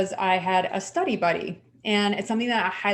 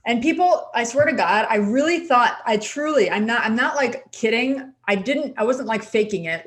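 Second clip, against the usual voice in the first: emphatic; 2 semitones higher, 5 dB louder than usual. Real, not acted. Insisting the crying was real.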